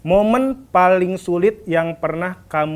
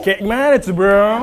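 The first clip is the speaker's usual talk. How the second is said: Jaksel slang; 3 semitones higher, 5 dB louder, slower than usual. Pretend. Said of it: "bahasa gaul ala anak Jaksel".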